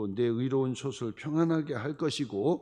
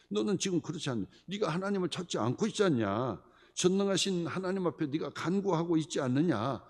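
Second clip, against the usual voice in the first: louder, higher rebuke as Bildad; accusing friend; 4 semitones higher, 4 dB louder than usual. Retold or imitated. Preacher voicing Bildad rebuking Job, accusing. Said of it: "쭉 그 얘기하는 거예요".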